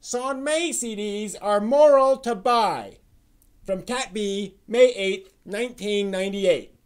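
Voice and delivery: loud, high, theatrical reading voice; dramatic reading. Acted. Host reads old anime forum post as the crow, loud high dramatic reading. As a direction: proclaim it like a pompous old forum poster. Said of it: "get into the dramatic reading".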